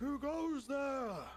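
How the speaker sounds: high, loud, slow shout. A mounted silver knight calls out to approaching adventurers, shouting a challenge. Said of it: "one of them shouts".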